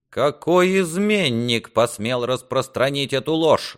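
high, slow indignant demand; a restrained shout of outrage; outraged cry. A narrator's reading. Lord hears rumour of the duke's death, outraged cry. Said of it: "закричал Реморни".

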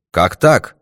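mildly exclaimed bewilderment; astonished exclamation. A narrator's reading. Baffled doctor questioning the detective's claim, mildly astonished exclamation. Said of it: "воскликнул он".

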